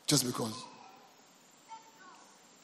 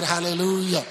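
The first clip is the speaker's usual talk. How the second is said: louder, held-out call to the congregation; 5 dB louder than usual. Real, not acted. Pastor repeating the call for a response, loud call. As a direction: call it out for everyone to answer.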